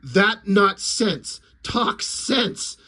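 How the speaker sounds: slow broken alien, trailing to a breathy aside; a dim alien, baffled; alien lizard. Retold or imitated. Lizard guy confused by Popo, slow broken. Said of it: "the lizard guy goes".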